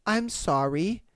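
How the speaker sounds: halting, small-voiced backing down; sheepish mimicry. Imitating a caller who yelled at staff then apologized, sheepish. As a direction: pause between each little apology, then sign off.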